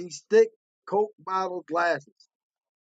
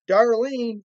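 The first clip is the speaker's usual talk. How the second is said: raised, louder call to a daughter; 4 semitones higher, 7 dB louder than usual. Retold or imitated. Mother calls over to Darlene, calling out. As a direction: call her name out firmly, pitched up.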